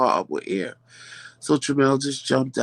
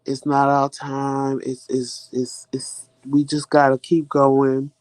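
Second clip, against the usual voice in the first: husband reassuring; 2 semitones lower, slower than usual. Retold or imitated. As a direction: ease her down, like a husband calming his wife. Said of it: "Tramel will tell me".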